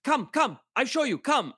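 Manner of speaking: high mock fixer beckoning; eager broken-English invitation; imitating the fixer.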